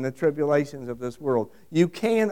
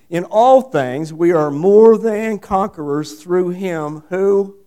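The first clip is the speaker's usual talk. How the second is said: slow, louder proclamation of the verse; slow loud reading; 6 dB louder, slower than usual. Real, not acted. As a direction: declaim each word slowly. Reading scripture with force.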